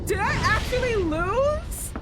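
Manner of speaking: high, loud disbelieving cry; can't believe he just lost; shocked disbelief. Real, not acted. Player reacting to the guilty verdict, shocked. Loses the trial in-game.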